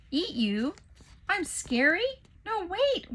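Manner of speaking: high, pleading dismay; hurt surprise. Acted. Waffle pleading with the fleeing children. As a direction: protest in shock. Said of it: "Waffle uttered".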